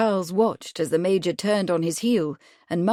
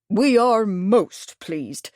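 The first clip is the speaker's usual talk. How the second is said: put-on slow, deliberate old Major; drawn out insistence; Major repeating; 3 semitones higher, 4 dB louder, much slower than usual. Old Major repeating himself to Bradford, slow. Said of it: "the Major repeated".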